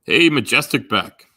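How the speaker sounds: loud, slow drawn-out hey to a viewer; calling out greeting. Real, not acted. Streamer loudly greets a chat viewer, slow and drawn out. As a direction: call the name out big and slow.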